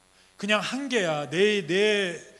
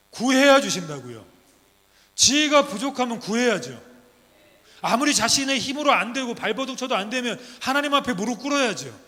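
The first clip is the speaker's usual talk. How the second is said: loud, driving sermon cadence; preaching at full force; 3 semitones higher, 4 dB louder than usual. Acted. Preacher urging the congregation to pray, full-force preaching. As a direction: hammer the promise home to the congregation.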